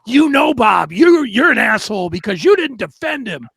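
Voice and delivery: shouting fan insults, loud at first; a loud mock rant from an angry fan that fades at the end; mimicking angry fans. Co-host voices angry fans blaming Seth, in a loud mock rant. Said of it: "they're blaming everybody in sight".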